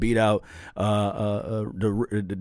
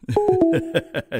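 wolf howl; 3 dB louder than usual. Pretend. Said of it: "you want one of them wolf howls?".

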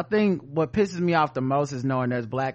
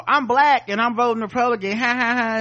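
higher-pitched gloating mock boast; hammed-up crowing imitation; mocking paid troll; 6 semitones higher, 4 dB louder than usual. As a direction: parody a troll, ending on a fake laugh. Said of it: "those are the ones who go".

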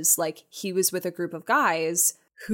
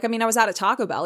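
ordinary talk, nothing marked

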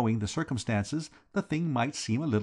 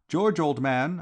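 calling down the corridor; raised calling voice; shouting; 5 semitones higher, 5 dB louder, slower than usual. A narrator's reading. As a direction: call out to George below deck. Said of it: "I shouted".

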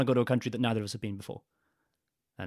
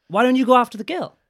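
mock egging on; 13 semitones higher, 9 dB louder than usual. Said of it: "you and Isaac were like".

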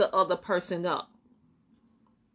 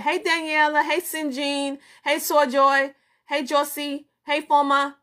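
higher, bright sing-song hellos; cheerful greetings; 6 semitones higher than usual. Real, not acted. Greeting international viewers by name, cheerful and higher. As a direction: welcome each name warmly.

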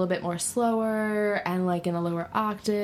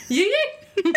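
high, loud laughing yell; a rapper impression; 13 semitones higher, 5 dB louder than usual. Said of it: "my mating call".

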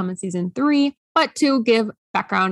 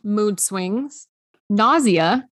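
out of breath from a long list; running out of air; slower than usual. Real, not acted. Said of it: "I'm running out of breath doing this".

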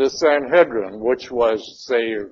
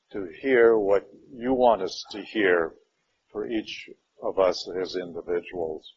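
unhurried prayer spoken over the group; opening prayer; 3 semitones lower than usual. Acted. Class leader praying before the Gospel lesson, prayerful voice. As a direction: pray aloud for open minds and hearts.

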